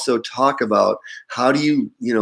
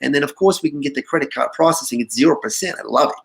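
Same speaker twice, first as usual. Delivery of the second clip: higher mock New York accent, rattled off fast at first; 3 semitones higher, faster than usual. Boss imitating a New York caller's sales pitch, mock New York accent. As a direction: keep the eager New York caller going. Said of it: "he said".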